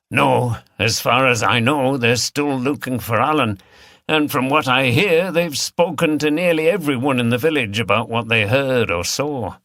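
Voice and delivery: easygoing barman filling them in; landlord answering. Acted. Rob answers the regulars.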